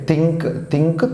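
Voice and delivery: థింక్ starting with an unvoiced dental "tha"; tha sound. Shown as a demonstration. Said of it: "తా sound". (థింక్ లో తా sound)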